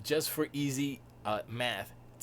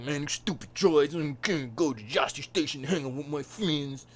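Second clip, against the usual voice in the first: put-on louder teen whine; whiny Luke; 4 semitones higher, 5 dB louder than usual. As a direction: complain like a bratty kid.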